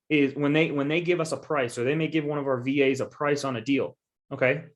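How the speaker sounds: ordinary talk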